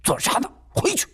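high, sharp command; sharp rebuke. Acted. Father stopping his son, sharp and commanding. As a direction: bark him back inside. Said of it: "一声呵斥".

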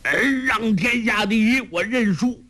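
put-on a beaten old master crying out in fear; terrified cry. A narrator's reading. Ouyang Feng yells surrender to his shadow in terror. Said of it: "吓得大叫".

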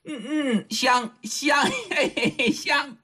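leering sniffing. Acted. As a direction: sniff her cheek and savour it lecherously. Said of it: "拿鼻子呀往紫燕姑娘脸上闻".

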